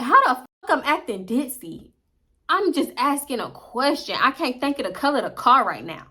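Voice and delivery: arguing back at her friend, indignant; retold argument. Heated quarrel retold.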